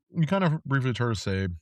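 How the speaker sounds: talking with mouth full; words round a bite of mango. Real, not acted. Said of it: "Sorry, I was eating a mango".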